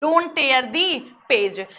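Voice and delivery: very slow, the whole phrase drawn out; slow repeat. Shown as a demonstration. Teacher repeating the sentence slowly for students. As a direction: read it again slowly in one go. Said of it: "तो आप क्या लिखेंगे?".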